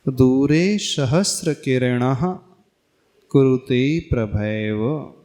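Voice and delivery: slow verse reading, सहस्र with no t; measured spoken shloka, clean sr in सहस्र; slow recitation. Shown as a demonstration. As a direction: articulate सहस्र as sa-has-ra within the line. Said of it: "सहस्त्र नहीं बोलना".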